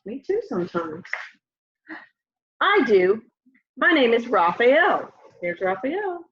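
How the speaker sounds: gentle storybook reading voice; lively picture book read-aloud; reading to children. Acted. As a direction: read it aloud like story time for little kids.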